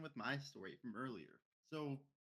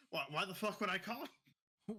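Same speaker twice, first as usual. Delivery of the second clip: grandma's mock outburst; 8 semitones higher, 4 dB louder than usual. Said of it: "my grandma's like".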